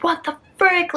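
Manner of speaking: high-pitched retold disbelief; incredulous, pitched well up; shocked exclamation. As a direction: imitate a friend's startled reaction. Acts out friend's shock on FaceTime.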